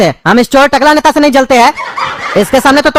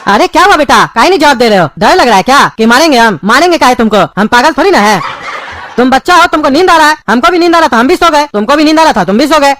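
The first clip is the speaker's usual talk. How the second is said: loving father. Acted. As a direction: sweet-talk the boy so he isn't afraid. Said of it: "इतना प्यार से हमसे बात".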